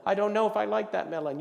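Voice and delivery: loud, high, doubtful protest; flustered customer. Acted. Customer doubting the offered melon, flustered. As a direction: push back as an unsure buyer.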